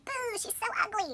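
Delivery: high-pitched heckling boo; mock jeering. Beetle ball crowd rejects Thumbelina, high mock jeering. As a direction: jeer it like a disgusted crowd.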